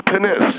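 "penis" with the weight on the last syllable; second-syllable stress on penis. Shown as a demonstration. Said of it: "they emphasize the second syllable".

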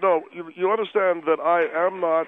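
chewing while talking; mouth full. Acted. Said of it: "You have food in your mouth".

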